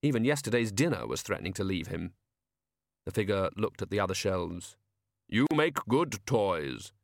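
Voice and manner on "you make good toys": very slow, measured compliment; each word weighed calmly; Death voice. Acted.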